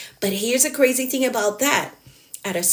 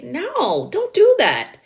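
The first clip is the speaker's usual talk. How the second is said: sharp warning; 8 semitones higher, slower than usual. Acted. Scolding a rescuing habit.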